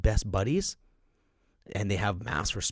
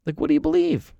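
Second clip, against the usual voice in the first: much higher, pressing "do"; emphatic repeat; 6 dB louder, faster than usual. Real, not acted. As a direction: push the question home, pitched high. Question asked twice, pushed.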